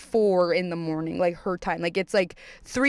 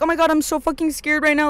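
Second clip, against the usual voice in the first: higher-pitched, hammed-up fright; mock panic; 6 semitones higher, 3 dB louder than usual. Mocking people who make a commotion, exaggerated panic. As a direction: play the overdramatic scaredy type. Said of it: "not the type to be like".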